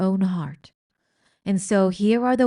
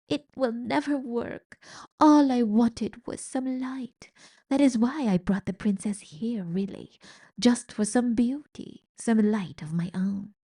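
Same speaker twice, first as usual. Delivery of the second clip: weeping confession; 4 semitones higher than usual. Acted. Rat crying to the mouse about light. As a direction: let the longing crack through.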